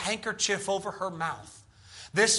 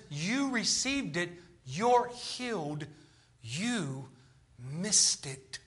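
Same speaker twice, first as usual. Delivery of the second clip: slow, low, soft pronouncement; quiet, spaced-out re-enactment; hushed retold verdicts; 3 semitones lower, 6 dB quieter, much slower than usual. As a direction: weigh each word, dropping lower at the end. Contrasting retold verdicts, solemnly.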